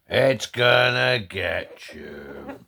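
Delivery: drawn out slowly; slow menacing tease. Real, not acted. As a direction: stretch each word out.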